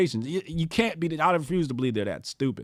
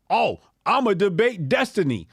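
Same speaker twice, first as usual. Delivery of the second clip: mocking shout; 4 semitones higher than usual. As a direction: ham up their excitement. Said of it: "The rest of y'all".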